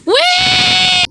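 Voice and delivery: high squeal of delight; gleeful whee. Real, not acted. Player jumping down gleefully with a high whee. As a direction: let out a joyful slide squeal. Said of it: "jumping down".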